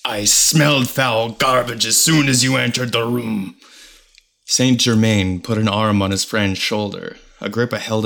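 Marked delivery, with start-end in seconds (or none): 0.0-3.5 angry growl. Acted. Agrippa snarls at Tituba.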